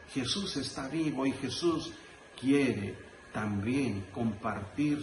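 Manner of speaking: very slow, drawn-out sermon close; solemn preaching. Real, not acted. Priest telling congregation Jesus wants to transform them, slow solemn preaching. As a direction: let each promise land separately.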